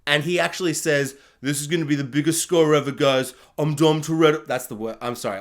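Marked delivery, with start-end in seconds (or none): 1.4-4.5 lightly voiced, badly faked tough guy; half-hearted movie gangster impression; a failed go at an action hero's voice; Dom Toretto. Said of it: "try and do a Dom Toretto accent".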